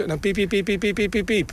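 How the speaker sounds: a longer run of high peeps; longer pipit song imitation. Shown as a demonstration. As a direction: keep the peeps going longer. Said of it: "Wordt het wat langer".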